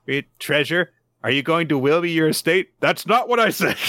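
a hint of a baffled child; confused little girl. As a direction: blurt it out in confusion. Anya reacts confused.

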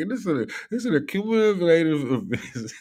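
lightly hammed-up imitation of a girl; mimicking the girl. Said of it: "It's like what that girl says".

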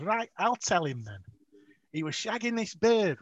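loud, high imitated Scouse goading; taunting driver. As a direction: launch gleefully into the embarrassing tale. Driver starts taunting revelation.

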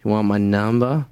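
low, slowing come-on; mock pick-up line. Acts out pick-up line at bar.

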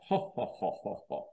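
put-on "ha ha ha", dropping in pitch; mock laugh. People ridiculing a conspiracy theorist, mock laugh. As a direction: imitate a scornful laugh without real mirth. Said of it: "A loud laugh".

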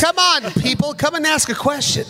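calling out. Real, not acted. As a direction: urge the audience to step up. Coaxing the audience to ask.

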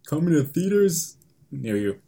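movie trailer voice. Shown as a demonstration. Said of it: "How would you introduce the movie".

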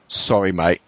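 put-on East London accent. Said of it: "in my best East London accent".

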